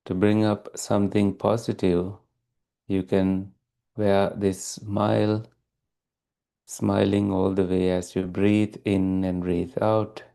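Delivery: calm, even meditation guidance with long pauses; unhurried, steady meditation teacher delivery; guided meditation. Real, not acted. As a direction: guide listeners gently into stillness, leaving long silences.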